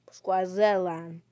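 Swaziland said slowly with a hard skw start; slow, exaggerated Swaziland; mock pronunciation. Shown as a demonstration. Player mocking how others say Swaziland, slowly. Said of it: "You probably pronounce it like this".

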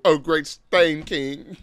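slow, drawn-out mock herald; mock royal herald. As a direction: drag it out like a courtier. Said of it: "Talking about".

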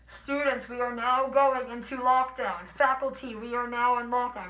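a slow, even PA announcement, lightly imitated; calm announcement. School lockdown announcement over the intercom, lightly imitated calm voice. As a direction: read it like a steady school intercom. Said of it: "Very calm".

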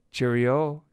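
gleeful, high loud goodbye; chortled farewell. A narrator's reading. Cat escaping the inspector by train, chortling. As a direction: sing out goodbye, pleased with the escape. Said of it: "chortled the cat".

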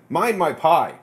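sudden high, loud cry of a country woman; loud call. Retold or imitated. Ghost woman calls out to the lone woman, loud and high. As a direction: bark it out from across the kitchen. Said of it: "say very loudly in a local accent".

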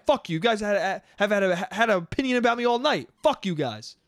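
mock aggressive complaining; retold intense rant. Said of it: "this guy's getting intense".

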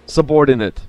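bossy pony voice; loud snarling boss impression; mock gruff boss. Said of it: "he's like a pony the way he's like".

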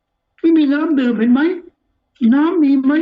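high-pitched, drawn-out mock grumbling; aggrieved complaint. Preacher acting out the grievance at Moses over water, aggrieved. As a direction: act out a put-upon whine, pitched well up. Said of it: "น้อยใจมาก".

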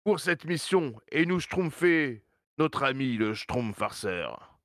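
Papa Smurf voice. Acted. (voix du grand Schtroumpf, lente et aiguë)

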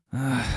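father's resigned sigh; a long-suffering exhale; weary sigh. A narrator's reading. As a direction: sigh before answering. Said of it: "Der Vater seufzte".

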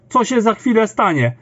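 normal talking voice

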